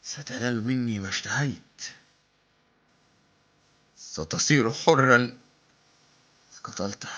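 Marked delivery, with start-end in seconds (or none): 4.0-5.4 drawn out, loud and weighty; slow, emphatic promise. Acted. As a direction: stretch every word like a vow. Hind's promise, dramatic.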